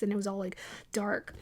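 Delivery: ordinary talk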